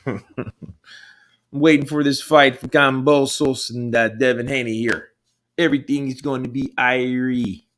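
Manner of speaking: relaxed Jamaican island lilt; Jamaican accent. Acted. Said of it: "Can you do a Jamaican accent?".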